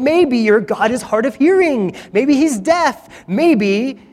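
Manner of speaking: mock the false prophets like a heckler; mocking taunt. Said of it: "he starts mocking them".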